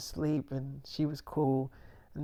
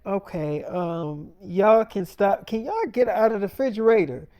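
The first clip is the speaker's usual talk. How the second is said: scolding mom; 5 semitones higher, 5 dB louder than usual. Retold or imitated. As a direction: stop the kids cold. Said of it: "Tia was like".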